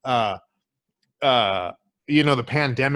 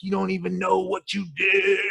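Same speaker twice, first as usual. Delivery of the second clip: mock furious dad yelling at his daughter; half-acted shout of a raging father; angry shout; 4 semitones higher than usual. Dad yelling at his daughter over the neighbor, mock shout. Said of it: "He's like".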